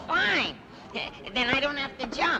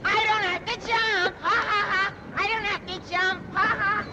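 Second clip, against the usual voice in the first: giddy relief. Acted. Nervous jumper told he needn't jump, giddy relief. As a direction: crow it happily between laughs.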